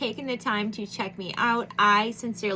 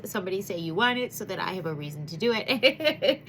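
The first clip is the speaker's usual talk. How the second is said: laughing. Real, not acted. Laughing while pleading.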